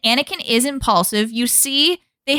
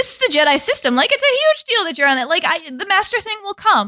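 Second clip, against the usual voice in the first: higher, earnest Kenobi voice; a hint of a serious mentor; lightly voiced Kenobi reassuring; mock earnest Kenobi; 5 semitones higher than usual. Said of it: "He's like".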